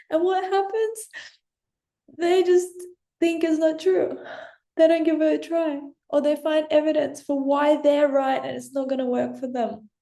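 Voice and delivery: emotional. Real, not acted. Coach pouring her heart out to viewers, emotional. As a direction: let real emotion push the voice up. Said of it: "I'm feeling really emotional".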